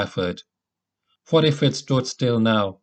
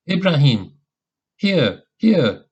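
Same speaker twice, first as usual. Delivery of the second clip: calling out; 5 semitones higher, 4 dB louder than usual. A narrator's reading. Reunion calls in the dark.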